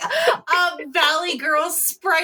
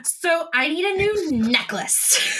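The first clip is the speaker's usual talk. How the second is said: drawn-out, lightly put-on character voice; slow attempt at Adrena's voice, not quite right; mistaken princess voice; 4 semitones higher than usual. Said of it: "That was not how your voice sounded".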